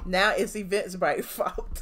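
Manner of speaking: chuckling through Now it's Eventbrite's fault; laughing scoff. Real, not acted. Host laughing at the ranting woman's excuse, chuckling.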